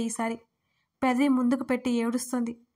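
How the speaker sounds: usual speaking voice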